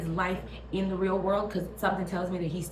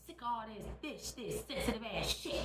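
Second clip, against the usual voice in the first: quiet muttered Skeletor; 4 semitones higher, 13 dB quieter than usual. Retold or imitated. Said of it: "And Skeletor said".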